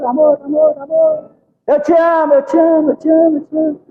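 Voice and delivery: a hint of a tender shout echoed back; loving echo. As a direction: shout praise and let it echo. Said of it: "presta atenção".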